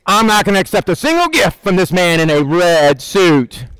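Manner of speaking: put-on a kid refusing Santa's gifts without proof; skeptical kid. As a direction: play a doubting child, lightly. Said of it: "Kids don't go".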